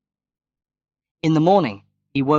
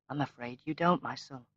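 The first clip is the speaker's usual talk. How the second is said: sadly; 8 dB quieter than usual. A narrator's reading. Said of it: "she replied sadly".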